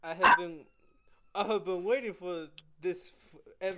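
Mexican accent attempt. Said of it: "I'm trying to do a Jose accent".

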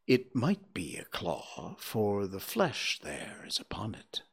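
sorrowful, dropping to a whisper. Acted. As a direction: answer in hushed sorrow. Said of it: "in a sorrowful reply".

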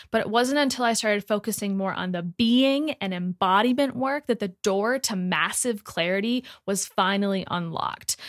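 punchy, emphatic host ad read; podcast promo read. Acted. Host urging listeners to join her meditation collective, emphatic promo read. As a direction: sell it with energy, hitting key words hard.

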